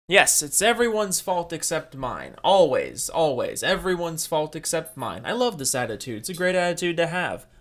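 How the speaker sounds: mock agreement with emphatic repeats; sarcastic. Real, not acted. Reacting to a YouTuber blaming everyone else, sarcastic. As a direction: heap on sarcastic praise. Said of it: "I'm being sarcastic".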